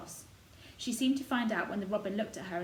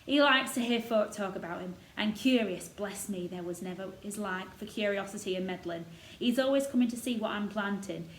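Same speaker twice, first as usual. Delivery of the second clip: lightly voiced proud old gardener; a touch of Yorkshire, warming to the robin; 4 dB louder than usual. Gardener boasting of the robin to Mary, lightly voiced old Yorkshireman.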